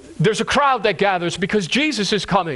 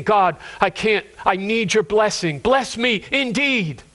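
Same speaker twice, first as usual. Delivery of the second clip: emphatic, slowing plea; earnest urgency, drawn out at the end; urgent prayer. Acted. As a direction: press each word of the prayer home. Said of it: "there's an urgency in this prayer".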